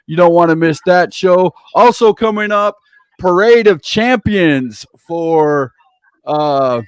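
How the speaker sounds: wrestling announcer plugging upcoming shows; event promo read. Real, not acted. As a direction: punch out event names like a ring announcer. Host runs through show promos.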